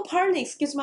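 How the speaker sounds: feigned incomprehension. Shown as a demonstration. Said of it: "하면 안 되지".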